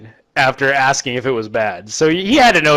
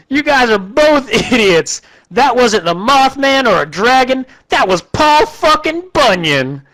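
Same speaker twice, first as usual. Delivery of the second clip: much higher, laughing, goofy voice; smug posse guy; 9 semitones higher than usual. Retold or imitated. Third posse guy scolding the other two, high goofy voice.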